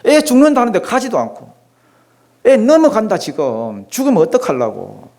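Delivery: 높고 다급하게 조르듯; 애가 타서 재촉하듯 높게; 다급한 흉내. Retold or imitated. 신하의 다급함 흉내. (애 죽는다며 예수께 매달리는 신하, 높고 다급하게)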